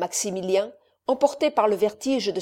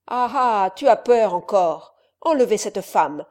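louder mocking jeer and order; mocking anger; 5 dB louder than usual. Count jeers at his son and orders the woman taken, louder. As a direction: jeer at him, then command.

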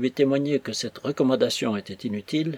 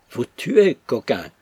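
smug mockery; 5 dB louder, slower than usual. A narrator's reading. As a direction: toss his words back with a satisfied sneer. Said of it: "souriant d'un air de satisfaction".

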